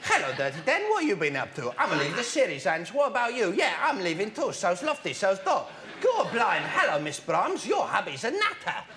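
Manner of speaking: soap-opera Cockneys, sent up; mock Cockney accent. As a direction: do a chattering London Cockney. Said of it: "they speak in Cock".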